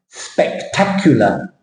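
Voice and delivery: slow SPEC-TAC-u-lar; syllable split. Shown as a demonstration. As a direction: draw out "spectacular" by syllables. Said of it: "where the words are split".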